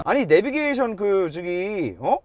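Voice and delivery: normal talking voice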